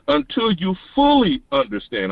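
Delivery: fully leaned on a little within the quote; stress on fully. Shown as a demonstration. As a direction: give weight to the word fully. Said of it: "I stress the word fully".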